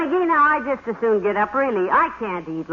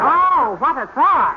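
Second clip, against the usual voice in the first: loud, high burst of laughter; laughing exclamation; 5 semitones higher, 5 dB louder, slower than usual. Acted. Wife amused by husband's epitaph mix-up, loud laughing exclamation. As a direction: let the joke crack you up.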